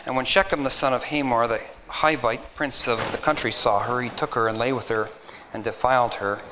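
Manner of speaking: measured, solemn Bible reading; scripture reading. Acted. Preacher reading Genesis to the congregation, solemn reading.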